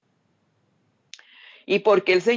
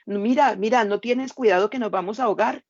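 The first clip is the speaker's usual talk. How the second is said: higher and fast, rushed panic; frantic plea; 3 semitones higher than usual. Acted. Believer begging the Lord not to let them drown, frantic. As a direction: tumble the words out in fear.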